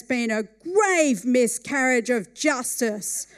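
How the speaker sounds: loud, impassioned courtroom plea; passionate plea. Retold or imitated. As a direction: argue his case with rising fervour. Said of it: "getting more and more passionate".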